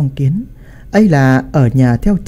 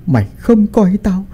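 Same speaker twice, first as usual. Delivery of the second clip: put-on high, irate old patriarch berating his son; angry scolding; 5 semitones higher than usual. A narrator's reading. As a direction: rail at a disgraced son in a raised pitch. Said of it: "hầm hầm sắc mặt mà đập bàn quát tháo".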